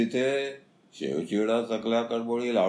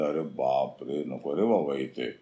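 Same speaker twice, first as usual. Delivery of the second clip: frightened; 6 semitones lower than usual. Acted. Holy men flee in fright.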